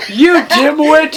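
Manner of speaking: slow hammed-up snarl of an insult; mock angry insult. Reading Snape's line, insulting the narrator. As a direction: spit the insult out slowly. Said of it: "Snake began to shoot angrily".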